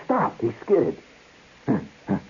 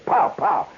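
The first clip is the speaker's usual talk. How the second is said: higher, punched POW twice; imitated whip cracks; 4 semitones higher than usual. Storyteller as the tamer cracking whips, sharp pops. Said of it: "He goes".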